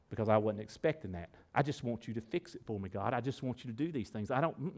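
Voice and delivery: low, soft mock complaint; quietly grumbling imitation of a reluctant believer; reluctant refusal. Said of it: "And we say".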